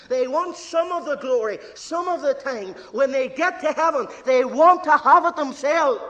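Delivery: from firm to loud; building to a shout. Real, not acted. Preacher rebuking people who want glory, rising loud.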